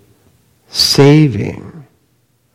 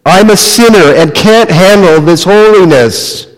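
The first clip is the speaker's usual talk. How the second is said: mild plea in a higher pitch; begging; 5 semitones higher than usual. Acted. Peter, crumbling in unworthiness, begs his master, pleading. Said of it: "he begged".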